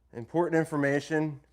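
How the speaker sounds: monotone robot reading. Shown as a demonstration. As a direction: read it flat like a machine. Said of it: "We'll read it like a robot".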